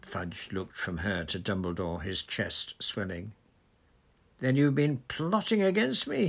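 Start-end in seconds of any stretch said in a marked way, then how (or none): 4.4-6.3 loud, high outburst of accusation; indignant raised voice, pitched well up; yelled accusation. A narrator's reading. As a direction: yell it at the one who betrayed you. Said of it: "he yelled".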